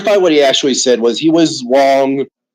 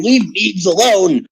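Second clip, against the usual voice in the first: higher, drawn-out mock pleading; slow, raised-pitch mimicry; mimicked plea; 5 semitones higher, slower than usual. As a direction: imitate someone pleading on a friend's behalf. Mimicking friends defending Meigs.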